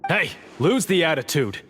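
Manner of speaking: stern warning. Acted. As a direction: put him in his place. Guard scolds rude inmate.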